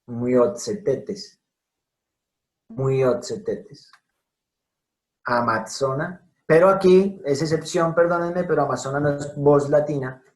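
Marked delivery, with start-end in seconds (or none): 0.1-3.9 "Muiotzetetes" lento, con ts como en pizza; ts marcada. Shown as a demonstration. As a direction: stretch out "Muiotzetetes", a crisp ts in the middle. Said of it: "T S, miren". ("Muiotzetetes" despacio, ts bien clara)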